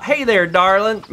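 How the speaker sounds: mild Southern drawled darling; a light Southern "Hey there, darling.". Shown as a demonstration. Friend showing the Southern version of darling, lightly. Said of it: "Not, not".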